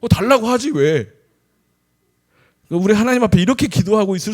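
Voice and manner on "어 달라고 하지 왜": much higher and louder, an exasperated mom; mock annoyed retort. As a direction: snap back at the child in fake irritation. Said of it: "뭐 이러면 화나잖아요". (돌려 말하는 자녀에게 답답해하는 엄마 흉내, 높고 큰 목소리)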